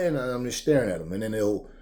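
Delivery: ordinary delivery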